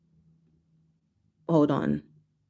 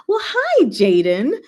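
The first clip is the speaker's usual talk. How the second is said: bright greeting; 5 semitones higher, 4 dB louder, slower than usual. Real, not acted. Greeting a new viewer.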